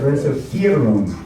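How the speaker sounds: RESERVIEREN with the V said as F. Shown as a demonstration. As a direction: say reservieren with an F sound in the middle. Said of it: "V's pronounced like an F".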